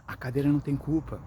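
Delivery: gently explaining the chair isn't to blame; calm and tender. Shown as a demonstration. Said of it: "falar com calma, com carinho". (com calma, explicando com carinho)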